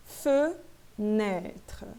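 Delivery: "Fenêtre" with first E as rounded eu; unaccented E sound. Shown as a demonstration. Teacher repeating the phonetics, syllable by syllable. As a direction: split "Fenêtre" into feu and open nêtre. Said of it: "ele tem que ter essa fonética aqui".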